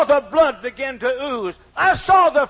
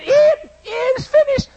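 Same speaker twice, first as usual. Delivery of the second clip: mocking shout; 13 semitones higher, slower than usual. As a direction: shout his last words back at him in scorn. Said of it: "I actually mocked him and said".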